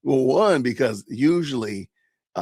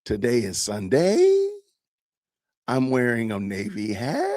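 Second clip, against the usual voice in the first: slow statements with each ending pitched up like a question; upspeak demo. Shown as a demonstration. Streamer showing how his kids talk, slow upspeak. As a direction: turn plain statements into questions, slowly. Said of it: "making statements that sound like questions".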